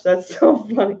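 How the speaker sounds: laughing through the words; amused laughter. Real, not acted. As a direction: giggle mid-line. Laughs at chat.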